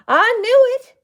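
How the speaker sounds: sharp, loud, high furious outburst; hissed. Acted. Old aunt realizing her fears came true, hissed loudly. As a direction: spit it out in alarm and anger. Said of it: "Aunt Chip hissed".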